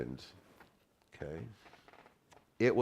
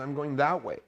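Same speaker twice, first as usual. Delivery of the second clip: insistent; 7 semitones higher than usual. Retold or imitated. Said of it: "I said".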